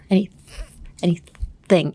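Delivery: bratty teasing sibling voice; mocking a sibling. Shown as a demonstration. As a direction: say it like you're taunting your brother. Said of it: "that stupid face that kids make".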